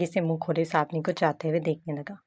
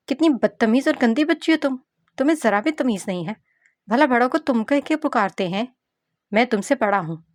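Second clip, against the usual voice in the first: put-on higher, louder telling-off of a rude child; stern scolding; 5 semitones higher, 3 dB louder than usual. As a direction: scold her like an offended elder. Ruhel scolds the rude girl. (बदतमीज़ बच्ची को डाँटता लड़का)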